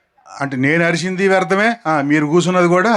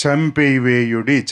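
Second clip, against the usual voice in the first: slow dictation; 3 semitones lower, slower than usual. Shown as a demonstration. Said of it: "మొదటి మాట".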